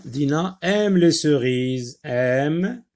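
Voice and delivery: "Dina aime les cerises" said slowly and loud; slow dictation. Shown as a demonstration. Teacher dictating the sentence to the class, slowly. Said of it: "Qu'est-ce qu'on a dit de Dina?".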